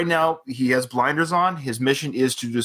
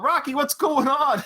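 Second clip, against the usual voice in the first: retold reporter yell; 11 semitones higher than usual. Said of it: "one of the reporters yelled".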